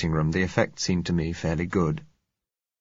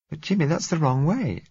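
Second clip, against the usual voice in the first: put-on higher, pleading young woman's voice; frightened girl pleading; 10 semitones higher than usual. A narrator's reading. Girl begging Jimmy not to leave their flat, frightened and higher. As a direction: beg him not to leave, rising worry.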